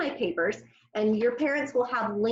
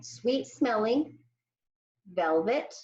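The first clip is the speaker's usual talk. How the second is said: slow; slower than usual. Shown as a demonstration. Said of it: "we're gonna put them together as one".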